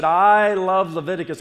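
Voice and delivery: loud, high rallying cry; full enthusiasm. Shown as a demonstration. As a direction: belt it out to fire up the congregation. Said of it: "with the enthusiasm that, uh, you know, we, we had".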